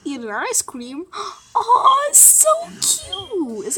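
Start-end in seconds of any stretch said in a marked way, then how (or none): 1.5-3.7 high squealing gasp over cuteness; overwhelmed by cuteness. Real, not acted. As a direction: gush over something adorable. Mom gasps at cute kitten video.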